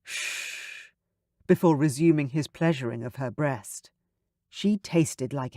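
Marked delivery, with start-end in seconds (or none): 0.0-0.9 soft unvoiced shh; gentle shush. Oliver to Sarah, a gentle shush. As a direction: hush her gently. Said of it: "He told her gently".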